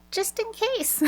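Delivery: breezy, high and offhand; nonchalant. Retold or imitated. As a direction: toss it off lightly, no big deal. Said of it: "I love how nonchalant she was".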